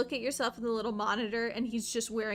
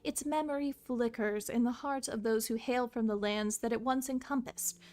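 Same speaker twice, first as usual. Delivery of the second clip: grand storybook reading; story narration. Acted. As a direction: narrate the history solemnly. Reading game lore aloud.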